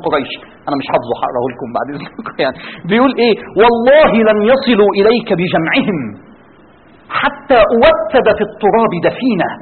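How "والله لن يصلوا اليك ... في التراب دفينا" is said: slow, measured recital of verse; poem recitation. Acted. Preacher reciting Abu Talib's poem to the audience, slow and measured. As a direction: declaim the verse slowly.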